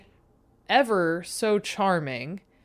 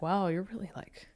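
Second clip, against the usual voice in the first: mocking inner voice; 4 dB quieter than usual. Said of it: "this voice in my head was like".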